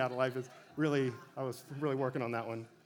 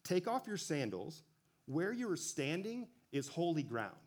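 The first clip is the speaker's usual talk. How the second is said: voice of God; 3 semitones higher than usual. Retold or imitated. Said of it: "and God says".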